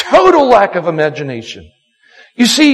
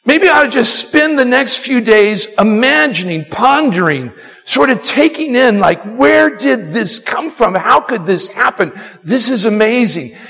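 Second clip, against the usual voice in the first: wondering pondering; 2 semitones higher than usual. Pretend. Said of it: "imagination to say the word blessing".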